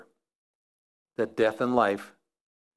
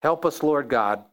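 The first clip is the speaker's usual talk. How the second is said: prayer. Acted. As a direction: pray it out, unhurried and earnest. Closing prayer.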